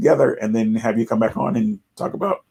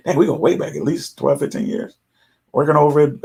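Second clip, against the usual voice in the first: ordinary talk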